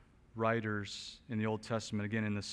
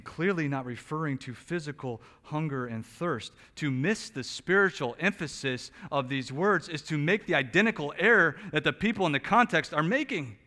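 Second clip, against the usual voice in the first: louder, higher, driving pulpit voice; preaching at full force; 5 semitones higher, 8 dB louder than usual. Acted. Pastor urging his congregation, preaching at full force. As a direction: lift it and press the truth home to the room.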